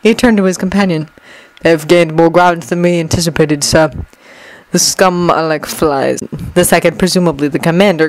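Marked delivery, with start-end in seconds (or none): 1.6-6.2 grind it out like a machine; mechanical guard voice. Acted. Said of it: "grated in the same mechanical voice".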